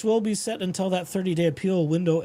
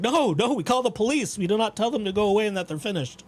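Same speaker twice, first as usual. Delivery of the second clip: indignant half-asleep scolding; sleepy scolding; 4 semitones higher than usual. Retold or imitated. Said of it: "talking to myself in the half asleep state".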